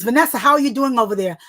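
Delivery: friendly adult asking. Retold or imitated. Adult asking shy child.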